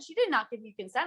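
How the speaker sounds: high, quick retold scolding; retold full rage. Woman defending the girlfriend's consent, retold rage. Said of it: "full rage".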